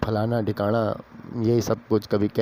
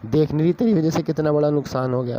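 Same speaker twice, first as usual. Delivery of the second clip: boss shouting; 4 semitones higher than usual. Retold or imitated. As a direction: bark it at her, climbing in pitch. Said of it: "वो boss एकदम चिल्ला के बोला".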